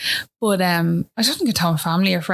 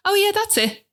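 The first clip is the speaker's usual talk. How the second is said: bright midwife; 12 semitones higher than usual. Retold or imitated. Quoting midwife's cheerful relief.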